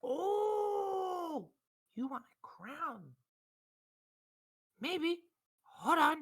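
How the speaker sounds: put-on high, loud grumpy Southern old man; cranky old shopkeeper. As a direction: bark at the adventurers like a fed-up old codger. Shopkeeper remembers a crown.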